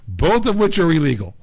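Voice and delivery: high, lecturing mock cop voice; imitating a lady cop. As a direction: list the offences like a stern officer. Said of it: "And she's like".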